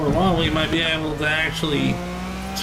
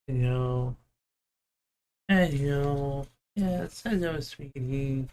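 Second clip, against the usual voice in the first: soft cooing to cat; 3 semitones lower, 5 dB quieter, slower than usual. Real, not acted. Petting purring cat softly.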